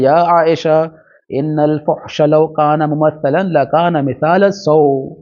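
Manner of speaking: slow, measured Arabic reading of a hadith; hadith recitation. Acted. Teacher reciting the hadith to students in slow Arabic. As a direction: lay out each Arabic word slowly, like scripture.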